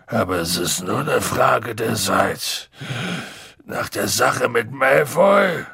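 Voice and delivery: a heavy, gloomy giant; gruff Hagrid voice. A narrator's reading.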